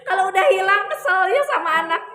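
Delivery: amused, the words riding on laughter; laughing. Real, not acted. Telling mothers how to calm down, laughing.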